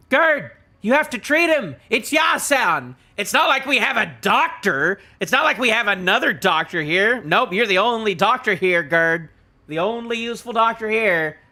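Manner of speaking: loud, high, exasperated plea; insistent pleading. Acted. Reader urging Gerd to treat the wounded, insistent pleading. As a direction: press the doctor hard to act. Acted plea to the only doctor.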